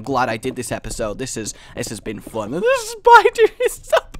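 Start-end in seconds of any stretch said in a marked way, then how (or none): 2.6-4.2 high, loud cackling villain voice; spider queen voice. Acted. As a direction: gloat like the queen. Spider voice again.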